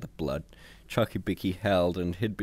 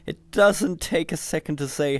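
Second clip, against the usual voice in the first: sulky computer voice; 8 semitones higher, 5 dB louder than usual. A narrator's reading. Computer voice, aggrieved.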